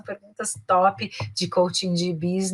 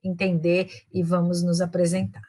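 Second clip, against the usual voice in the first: friendlier. Shown as a demonstration. Teacher acting out meeting someone new, friendly. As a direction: ask gently, just wanting to get acquainted. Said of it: "mais simpático".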